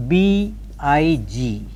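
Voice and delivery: slow letter-by-letter dictation; spelled out. Shown as a demonstration. Teacher dictating words to transcribe, slowly spelled out. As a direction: spell it slowly for note-taking, letters apart. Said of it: "I shall spell each word".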